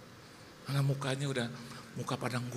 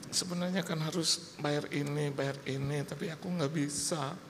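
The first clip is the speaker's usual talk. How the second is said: retold wife; 5 semitones higher than usual. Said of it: "Karena dia bilang sama saya".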